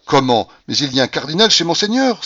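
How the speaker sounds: horrified cry. A narrator's reading. Little abbé blocks the door, horrified cry. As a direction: cry out in acted horror. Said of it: "s'écria le petit abbé en frémissant d'horreur".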